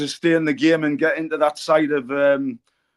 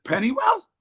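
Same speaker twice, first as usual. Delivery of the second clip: high, puzzled American echo, rising at the end; Donald Trump; 10 semitones higher than usual. Retold or imitated. Trump querying the visitor's home, puzzled American imitation. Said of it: "Donald Trump turned around and he says".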